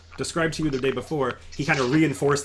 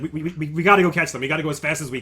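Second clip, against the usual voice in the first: flustered hurry; 2 semitones higher, 5 dB louder, faster than usual. Acted. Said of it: "he's really flustered".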